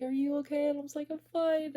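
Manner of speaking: mimicked high, strained exchange while upset; retold high-pitched upset. Retold exchange while starting to cry.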